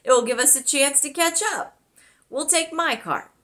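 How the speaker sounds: cheery boom. Acted. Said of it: "he boomed in a cheery voice".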